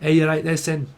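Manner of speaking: lightly imitated Leeds greeting; casual Leeds dialect; Leeds accent. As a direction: greet them like someone from Leeds. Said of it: "if you're from Leeds, they say Sen".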